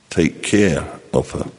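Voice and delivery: a hint of a grave old father, drawn out; father's lecture. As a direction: lay it down slowly like a father's final word.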